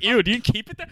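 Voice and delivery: high, grossed-out stranger voice; mock disgusted passerby. Passerby mocking him, grossed-out high voice. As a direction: squeal it like a disgusted onlooker. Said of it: "and they're like".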